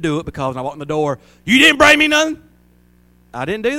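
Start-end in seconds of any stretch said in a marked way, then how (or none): 1.4-2.4 high, loud complaining wife voice; mock nagging wife. Pastor mimics an imagined wife, high and loud. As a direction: squeal it like a demanding wife.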